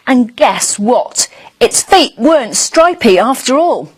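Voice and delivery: lively storybook read for little ones; reading to children. Acted. Presenter reading a bedtime story to young viewers, lively. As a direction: tell it like a bedtime tale to a small child. Reads picture book to children.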